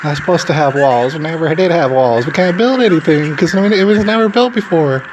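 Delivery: hammed-up sobbing protester; mocking whine. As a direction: parody him, whimpering like a crybaby. Mocking the crying protester's words.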